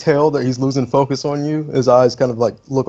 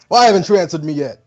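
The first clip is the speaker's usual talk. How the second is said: scowling; 5 semitones higher, 3 dB louder, faster than usual. Acted. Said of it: "and then he scowls".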